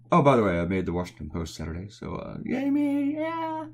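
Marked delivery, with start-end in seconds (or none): 2.4-3.7 self-cheer. Real, not acted. Cheering own newspaper appearance.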